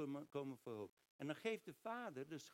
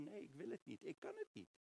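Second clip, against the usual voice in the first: reluctant Moses; 6 semitones higher than usual. Acted. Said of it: "allerlei excuses heeft en zegt van".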